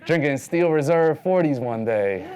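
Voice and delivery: can't wait to tell the story; a touch of proud city-kid glee; gleeful city kid. Retold or imitated. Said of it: "it's like".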